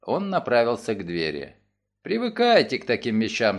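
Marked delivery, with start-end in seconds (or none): 2.0-3.6 with a smile. Acted. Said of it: "сказал он с улыбкой".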